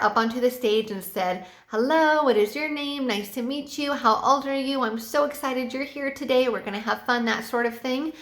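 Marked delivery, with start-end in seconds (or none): 1.7-7.2 enthusiastic teacher. Shown as a demonstration. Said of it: "you have to be very enthusiastic".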